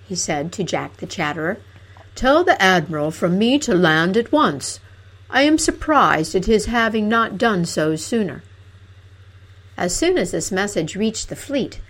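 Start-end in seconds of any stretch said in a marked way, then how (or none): 2.1-8.4 loud, stern royal command; commanding king. Acted. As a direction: bark orders like a king. King gives orders.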